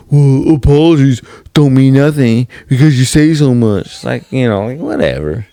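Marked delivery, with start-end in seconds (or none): 0.1-3.9 raised-pitch imitation of a fed-up partner; mimicked complaint, pitched up and pushed; mock scolding. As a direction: throw the apology back, higher pitched. Mimics partner rejecting an apology.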